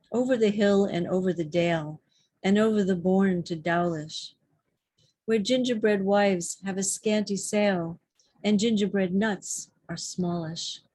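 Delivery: lilting, rhythmic verse recital; short comic verse read aloud; poem reading. Acted. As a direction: bounce lightly along the rhyme and metre.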